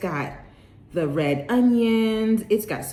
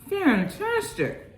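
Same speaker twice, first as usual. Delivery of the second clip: high drawn-out praise; 10 semitones higher, slower than usual. Real, not acted. Raving about food.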